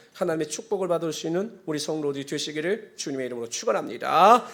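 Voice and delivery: loud proclamation with rising final word; preacher's blessing. Real, not acted. Pastor blesses congregation in the Lord's name, loud rising call. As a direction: call out the blessing to draw an amen.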